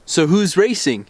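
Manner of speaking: slow, drawn-out sarcastic question; mock-innocent sarcasm, taking it slowly. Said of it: "it was in a really sarcastic way".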